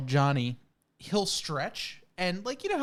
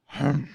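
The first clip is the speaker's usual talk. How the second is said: mock impatient sigh; 4 semitones lower, 4 dB louder than usual. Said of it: "they'll just go".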